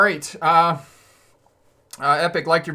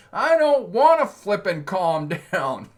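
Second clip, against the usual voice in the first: louder and higher, slow, hammed-up fury; mock angry retort; 6 semitones higher, 6 dB louder, slower than usual. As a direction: play the upset person snapping back. Voicing the provoked angry person.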